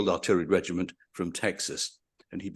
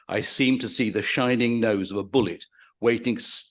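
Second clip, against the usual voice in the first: dramatic reading; 3 dB louder than usual. Acted. Lecturer reading a prisoner's capture memoir aloud, grave and vivid. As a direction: read the captured soldier's memoir with gravity, slightly raised.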